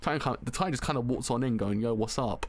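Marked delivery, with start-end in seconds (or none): 1.8-2.4 nonchalant casual. Retold or imitated. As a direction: toss it off like nothing. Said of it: "nonchalant, just casual".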